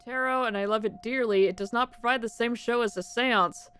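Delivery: lightly voiced dramatic medium; theatrical fortune teller.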